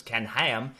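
a lightly put-on, terrible Australian accent; a quick, bad Ken Ham Australian twang; faint Australian accent, hammed-up on the name.

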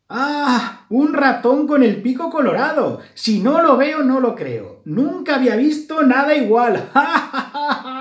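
very high, loud cackling goose voice; mocking laughter. A narrator's reading. A passing goose laughs at the red-nosed mouse, dying of laughter. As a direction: squeal it out and burst into hammed-up laughter. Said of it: "le dijo muerta de risa".

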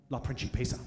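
La Principessa said low and haughty; proud little girl. Retold or imitated. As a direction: claim La Principessa like a crown. Daughter proudly names her title.

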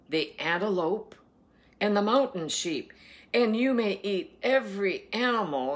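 slow, emphatic Bible reading; scripture reading. Acted. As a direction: proclaim the food laws, weighting each word. Reads scripture aloud.

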